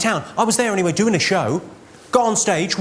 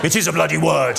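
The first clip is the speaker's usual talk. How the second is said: stubborn protest; 3 semitones lower than usual. Acted. Losing dad insists at Scrabble.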